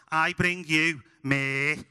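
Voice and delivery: slow Scouse nativity line; mock-solemn Scouse stage delivery; Scouse accent. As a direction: declaim it slowly in Scouse, as a boy king. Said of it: "sounds great in a Scouse accent".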